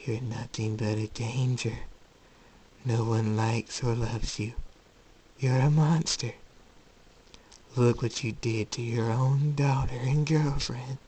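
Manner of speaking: slow, deliberate accusation; tormenting inner voice. Acted. Voice in Jacob's head blaming him, slowly accusing.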